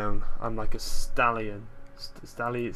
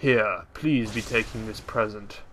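mock offering; slower than usual. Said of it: "And I'm like".

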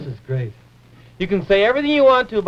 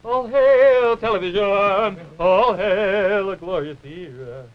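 grand proclamation; slower than usual. Acted. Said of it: "everybody bows low and says".

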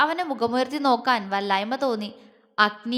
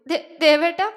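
tearful stammer, pitched higher; sobbing; 4 semitones higher, 4 dB louder than usual. A narrator's reading. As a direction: break on the first syllable as if holding back sobs. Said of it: "അവൾ തേങ്ങി". (തേങ്ങിക്കൊണ്ട് വിക്കി)

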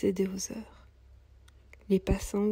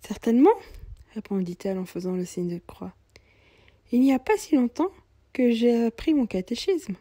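put-on higher, plaintive young mother's voice; young mother, weary; 3 semitones higher, 5 dB louder than usual. Poor young mother telling the cobbler she's going to hospital, higher and plaintive. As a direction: sound tired and worried about her baby.

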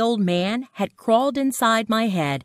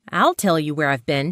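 ordinary delivery

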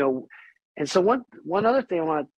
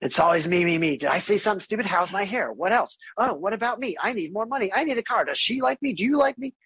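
climbing higher with each needy question, mocking; a hammed-up needy inner voice, rising higher; mock self-centered whine; 4 semitones higher, faster than usual. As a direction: play the anxious ego begging for attention. Mocking the selfish addict mind.

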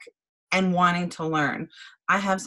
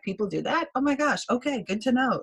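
higher-pitched, retold astonishment; mock surprise; 5 semitones higher than usual. Leader recalling her reaction to others' tips, surprised. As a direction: replay your surprise, pitched up.

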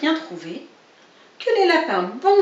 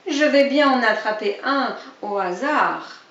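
sly fox; 2 semitones higher, 5 dB louder than usual. Acted. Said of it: "ajouta-t-il".

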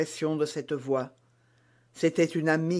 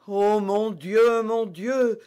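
terrified murmur; 5 semitones higher, 4 dB louder, slower than usual. A narrator's reading. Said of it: "murmura la reine dont les dents claquaient d'effroi".

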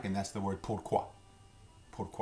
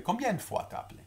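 much higher, rushed, words running together; said quickly; 14 semitones higher, faster than usual. Shown as a demonstration. Teacher shows how "Combien de fois t'as appelé?" sounds said fast. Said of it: "And you say quickly".

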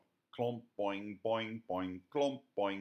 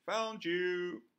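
triumphant; 13 semitones higher, 9 dB louder than usual. A narrator's reading. Triumphant call as fox frees.

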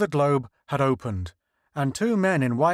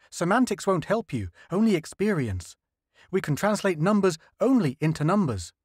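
higher, earnest explaining scientist; lightly voiced eager linguist, pitched up; 6 semitones higher than usual. Linguist explains the alien dials to the crew, higher earnest voice.

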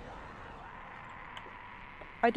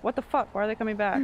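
alarmed; 4 dB louder than usual. Real, not acted. Player alarmed as the zombies come back. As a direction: catch yourself off guard.

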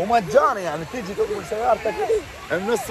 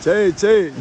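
in ice cold water; 7 dB louder, much slower than usual. Real, not acted. Cold breath sound.

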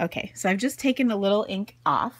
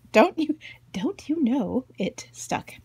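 slow, higher-pitched mock Minnesotan accent; 5 semitones higher than usual. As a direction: ham up the Minnesotan accent, stretching it out. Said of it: "that was my good Minnesotan accent".

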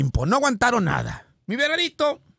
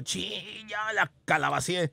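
muttered mock regret; 6 dB quieter, slower than usual. Rabbit realizing his mistake on the ride, soft mutter. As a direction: mumble it like you just messed up. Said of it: "El conejo dijo".

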